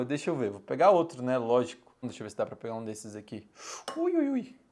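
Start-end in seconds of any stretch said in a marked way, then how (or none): 4.0-4.6 high hopping ow-ow-ow; like walking on hot sand; too hot to hold. Real, not acted. Tá quente pra caramba.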